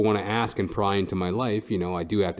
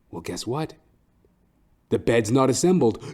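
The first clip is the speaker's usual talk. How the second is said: usual speaking voice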